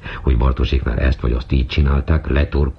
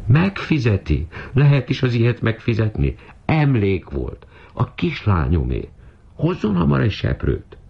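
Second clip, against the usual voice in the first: high-pitched, wailing indignation; distraught scolding; 8 semitones higher than usual. A narrator's reading. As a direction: berate the maid in a high, upset voice. Distraught mistress berating the maid.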